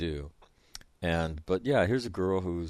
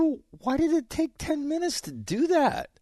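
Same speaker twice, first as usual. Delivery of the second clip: laughing question; 3 dB louder than usual. Retold or imitated.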